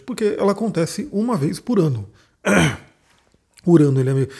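hoarse, voice nearly gone; hoarse after talking all afternoon; losing voice. Real, not acted. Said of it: "eu tô sem voz porque eu atendi a tarde inteira".

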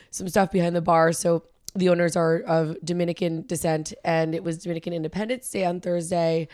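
raspy, worn-out voice; hoarse from yelling. Real, not acted. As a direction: speak through a strained throat. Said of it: "my voice is a little bit shot right now".

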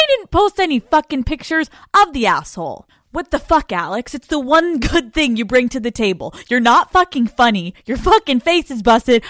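hammed-up indignant rant, punching the swear words; mock outrage. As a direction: berate her like a fed-up follower, in jest. Acting out an imagined outraged follower's message.

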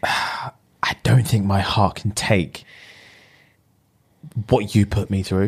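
slow, sighing mock heartbreak; sigh, then slowly let her down; acted heartbreak. Acts out heartbroken man turning her down.

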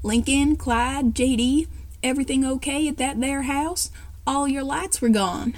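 put-on a light Southern accent, calling over the walkie-talkie. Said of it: "Liam, Southern accent".

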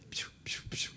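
soft unvoiced piu piu call to a waiter; imitated hiss call. A friend hissing piu piu to call a waiter. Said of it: "chamou o garçom assim".

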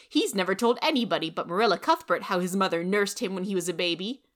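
loud, bitter scorn; vindictive. Acted. Rachel bitterly scorning Matthew to Anne, loud. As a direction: spit out the grudge.

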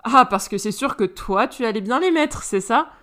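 plus fort, moqueuse; ricanement moqueur. Acted. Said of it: "Ricana Crystal". (Crystal ricane d'Alistair)

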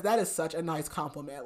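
deadpan, unimpressed retold compliment; dry sarcasm. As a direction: deliver the praise drily, without enthusiasm. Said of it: "like, so dry".

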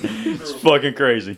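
slow words through a laugh; amused laugh about the desert base; laughing disbelief. Real, not acted. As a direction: laugh it out slowly. Laughing at Fort Irwin.

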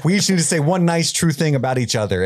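lightly imitated Dr. Phil accent, starting high; a hint of corny TV-therapist accent. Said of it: "why she used that accent".

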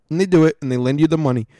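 talking through a hiccup; gasping hiccup mid-sentence. Real, not acted. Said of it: "sorry if I got hiccups".

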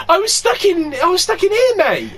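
high, loud, laughing protest; high laughing excuse. Retold or imitated. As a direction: say it while cracking up. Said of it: "I goes".

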